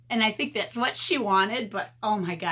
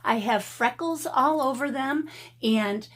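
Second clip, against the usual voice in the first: fired-up defiance; 6 semitones higher than usual. Real, not acted. Defiant rant about her hands.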